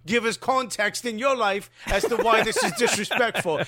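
mock indignation drifting into Scottish; accidental Scottish accent. Host mocking men scolding women, drifting into a Scottish accent. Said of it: "I think I went Scottish there".

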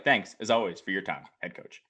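halting, broken-up delivery; haltingly fading out on head coach; staggered. Retold or imitated. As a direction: stumble through it with pauses. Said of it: "it was staggered".

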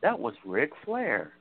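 lightly voiced storytelling wrestler, slowing for the punchline; Terry Funk. Retelling a wrestler's sheriff joke, light Terry Funk impression. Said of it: "those funny Terry Funk promos".

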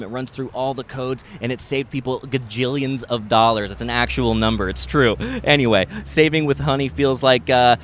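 chatty, lightly salesy sponsor read; podcast ad read. Acted. Host tells listeners about a money-saving tool, chatty ad read. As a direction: read the sponsor copy like casual banter.

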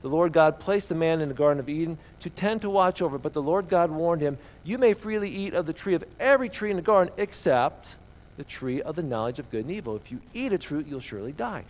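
reading the Bible passage aloud to the congregation; reading scripture to the church. Acted. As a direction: give the verses a storyteller's lift.

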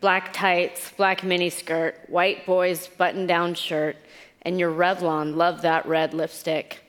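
measured, deliberate literary reading; reading a letter aloud. Acted. Author reads a letter to her younger self, measured recital. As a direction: read it out phrase by phrase, with pauses.

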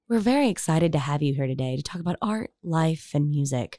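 lightly voiced public radio host; a hint of calm NPR interviewer. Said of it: "we can turn into an N P R podcast".

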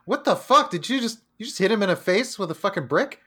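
high, startled what the fuck; shocked outburst. Retold or imitated. Retelling how he reacted to the brick, a high shocked outburst. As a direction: blurt it out in stunned disbelief. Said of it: "And I'm just like".

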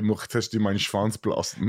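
spoken German, flat delivery; deadpan German line. Retold or imitated. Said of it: "That doesn't sound sexy at all".

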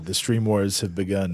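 low, ominous trailer voice; grave villain proclamation; Palpatine voice. Acted. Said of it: "I was trying to do, like, a".

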